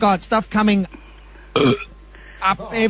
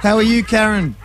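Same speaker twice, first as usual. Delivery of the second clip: laughing; 3 semitones higher than usual. Real, not acted. Laughing after the reveal.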